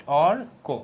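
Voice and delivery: অর্ক split into two beats, অর then কো; two-part word. Shown as a demonstration. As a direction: break অর্ক after a strong অর. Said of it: "দুইটা part".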